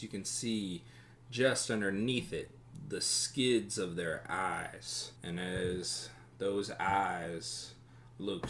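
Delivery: slow, measured scene setting; unhurried narrator drawing out each image; game master narration. Acted. Game master describes a tavern to players, slow immersive narration.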